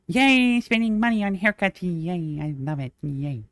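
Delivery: high mock-cheerful yay; sarcastic yay. Griping to viewers about haircut costs, sarcastic high cheer.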